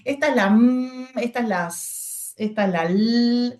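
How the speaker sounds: "m", "s", "l" voiced as their sounds; letter sounds. Shown as a demonstration. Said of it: "necesitamos que les digan".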